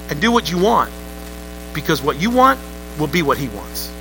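dropping to a quiet close. Acted. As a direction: let the promise fade into a hush. Slogan trails off.

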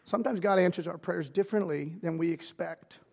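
soft repeat. Shown as a demonstration. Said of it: "repeated line, now soft".

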